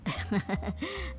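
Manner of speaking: quiet, smug little laugh; soft chuckle. Acted. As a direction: chuckle under your breath. Father-in-law laughs mid-threat.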